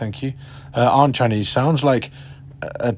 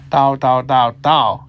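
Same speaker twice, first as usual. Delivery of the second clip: "Dao" called out loud, with the tones changing; friend calling parking directions; 4 semitones higher, 6 dB louder, slower than usual. Retold or imitated. Friend calling out directions while parking a car, loud. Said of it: "Two different tones".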